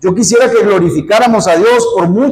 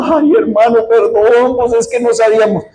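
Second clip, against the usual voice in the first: higher-pitched wailing apology; mock tearful; 4 semitones higher than usual. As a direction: imitate weeping church members begging pardon. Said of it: "estaban todos llorando". (llanto fingido, suplicante)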